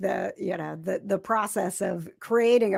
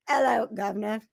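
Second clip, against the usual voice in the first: bad Cockney; 3 dB quieter than usual. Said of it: "I'm terrible".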